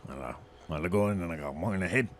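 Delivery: put-on lightly slurred drunkard voice; a hint of a rambling drunk; town drunk. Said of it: "is that why you talk like that".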